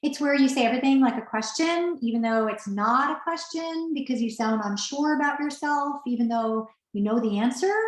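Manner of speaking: each phrase rising like a question; upspeak demo. Shown as a demonstration. Coach demonstrating upspeak to webinar audience, rising tune. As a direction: make every statement float up, unsure. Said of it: "I'll do it right now so you can hear what it sounds like".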